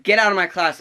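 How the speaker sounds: high, loud mock dismissal; imitated angry shout. Substitute to student with headphones, angry shout. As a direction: yell it like a fed-up teacher.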